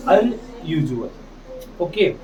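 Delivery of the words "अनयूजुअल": "अनयूजुअल" drawn out slowly, each syllable clear; slow model reading. Shown as a demonstration. Teacher reads "अनयूजुअल" slowly for pupils to copy. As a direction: stretch "अनयूजुअल" so learners hear every sound. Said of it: "क्या पढ़ेंगे इसे?".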